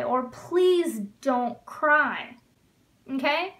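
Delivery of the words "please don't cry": please don't cry stretched out word by word; very slow model phrase. Shown as a demonstration. Teacher modeling a gentle command for students, very slow. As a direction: say it very slowly for learners. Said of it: "teacher modeling command".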